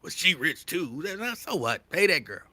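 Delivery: sisters talking. Retold or imitated. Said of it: "Y'all be like".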